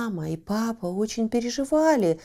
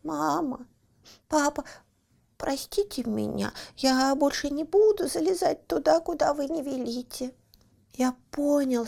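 guilty apology; 5 semitones higher than usual. Acted. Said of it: "виновато опустил глаза и сказал".

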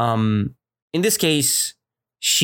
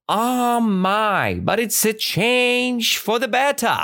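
cheerful; 8 semitones higher than usual. Retold or imitated. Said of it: "teacher voicing the old woman".

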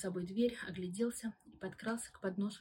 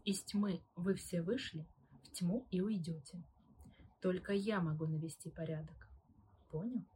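through gritted teeth. Acted. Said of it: "Последние слова Таминская процедила сквозь зубы".

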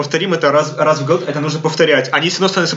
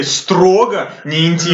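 "Строго" slow and heavy, like capital letters; stress on строго; much slower than usual. Shown as a demonstration. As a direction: spell out "Строго не интим" slowly, every word weighted. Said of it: "Большими буквами".

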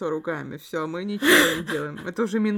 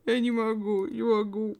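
laughing; 3 semitones higher than usual. Real, not acted. Laughing at absurd story.

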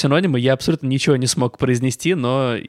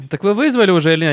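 impatient; 5 semitones higher, 4 dB louder, faster than usual. Pretend. Annoyed dispatcher in skit.

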